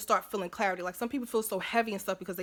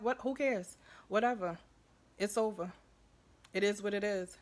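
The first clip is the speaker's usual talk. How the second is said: dismissive alter ego; 4 dB quieter than usual. Pretend. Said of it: "that's how my alter ego be thinking".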